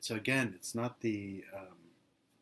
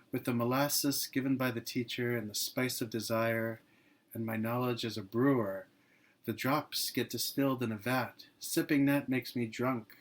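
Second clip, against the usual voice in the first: poem reading; 4 dB louder than usual. Acted. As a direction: give each image room, unhurried and reverent. Reads devotional poem aloud.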